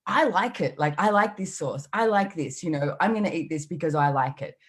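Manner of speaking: petulant mock protest; cranky insistence. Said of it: "I'd get so cranky and angry".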